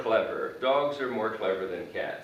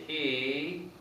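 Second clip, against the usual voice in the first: slow, stressed MORE in "more thankful"; slow model phrase; much slower than usual. Shown as a demonstration. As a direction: stretch "more thankful" out slowly for students. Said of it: "So what I do when".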